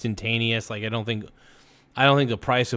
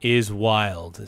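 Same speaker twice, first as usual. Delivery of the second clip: dramatic slow; 4 dB louder, much slower than usual. Acted.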